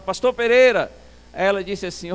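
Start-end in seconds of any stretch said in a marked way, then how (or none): 0.0-0.9 raised-voice call, higher and louder. Retold or imitated. Pastor trying to wake the nearly deaf old man, louder call. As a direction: raise your voice to wake him. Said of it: "falei um pouco mais alto".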